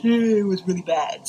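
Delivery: chuckling at herself; laughing it off. Real, not acted. Mom laughing to other moms about her ugly crying. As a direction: laugh through the words at your own mess.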